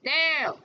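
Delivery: "no" jumps up high and lands hard; a flat, final "no" to the class; emphatic no. Real, not acted. Teacher firmly answering her own question with an emphatic no. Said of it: "The answer is emphatically".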